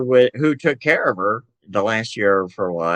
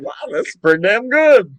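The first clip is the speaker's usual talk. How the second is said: put-on higher, eager kid praising the food; child's delight; 8 semitones higher, 4 dB louder than usual. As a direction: relish it like a happy kid. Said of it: "I was going".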